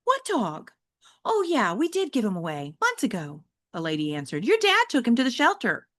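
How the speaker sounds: a hint of a patient mom; mom's voice. Mother explaining to her son where the dog went, mildly voiced.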